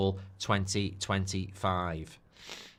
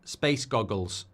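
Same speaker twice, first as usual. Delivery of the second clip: "Space goggles" drawn out slowly in a Scottish accent; slower than usual. Shown as a demonstration. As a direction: say "Space goggles" like a Scot saying a band's name. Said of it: "sounds like Spice Girls in Scottish".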